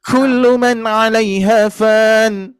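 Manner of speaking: 「Kullu」をゆっくり高めに; kullu example. Shown as a demonstration. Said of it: "Contoh misalkan".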